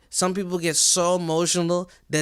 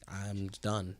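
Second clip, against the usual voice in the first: much softer, lower resigned voice; body giving up; 6 semitones lower, 10 dB quieter than usual. Retold or imitated. Voicing the body giving up on heartbreak, low and soft. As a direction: let it sink, drained and quiet. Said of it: "your whole body's just like".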